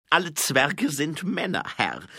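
high, loud voice reporting to a superior; earnest dwarf subordinate. Acted. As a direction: explain insistently in a high voice. Grinsi explains dwarf custom to superior. (hohe, laute Zwergenstimme)

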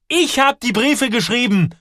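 high, loud outburst; shouted confession. A narrator's reading. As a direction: yell out the admission. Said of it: "schreit Joel".

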